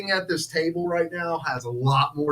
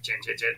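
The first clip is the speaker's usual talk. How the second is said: imitated guitar chugging; 6 semitones lower, 9 dB quieter than usual. Imitates kid strumming power chords.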